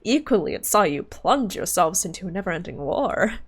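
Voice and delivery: theatrical scorn with swooping pitch; disdainful villain. Acted. Villain puzzles over human hope, disdainful. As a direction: lecture the human with lofty disdain.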